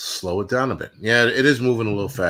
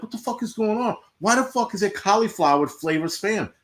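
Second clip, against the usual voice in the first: mock disbelief; 8 semitones higher than usual. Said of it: "I'm like".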